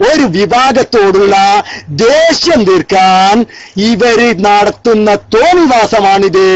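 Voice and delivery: ദേഷ്യം drawn out, every word weighed very slowly; slow indignant emphasis; slow, deliberate accusation. Shown as a demonstration. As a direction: spell out the charge word by word. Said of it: "കണ്ടില്ലേ?".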